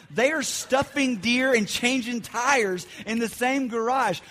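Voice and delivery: high, loud and slow, stunned; can't believe what he's seeing; stretched-out shocked exclamation; incredulous disbelief. Retold or imitated. Disbelief at the taxidermy garage.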